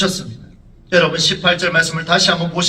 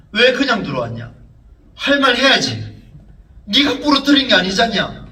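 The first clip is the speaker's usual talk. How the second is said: retold fatherly scolding, pitch rising; acted-out rebuke, higher voice; 4 semitones higher, 4 dB louder than usual. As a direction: press the child with reproachful questions. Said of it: "그렇게 닥을 치고 있던".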